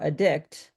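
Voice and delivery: adDICT, with the second syllable stressed; "addict" said with a weak first syllable, strong second. Shown as a demonstration. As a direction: punch the DICT in "addict". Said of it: "you wouldn't know where to put the emphasis".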